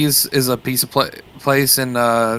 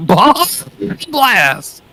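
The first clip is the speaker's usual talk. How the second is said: laughing repeat; 11 semitones higher, much slower than usual. Acted. Repeats drink name laughing.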